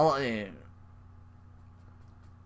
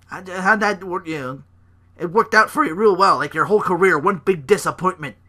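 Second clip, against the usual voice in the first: higher, loud-ish mock tirade; angry rant; 4 semitones higher, 4 dB louder than usual. Rollins berating a failed partner, raised mock anger. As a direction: chew him out, hammed up. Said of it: "he's like".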